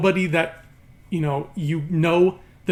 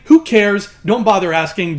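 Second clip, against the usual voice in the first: loud dismissive; 2 semitones higher, 7 dB louder than usual. Real, not acted. Mocking dismissal.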